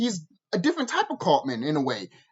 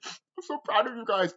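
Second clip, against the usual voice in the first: softer, imitated tearful voice; mock sobbing; 3 semitones higher, 6 dB quieter than usual. Cartman to his family while crying, in mock sobbing. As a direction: imitate someone choked up with tears. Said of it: "like, sobbing and crying".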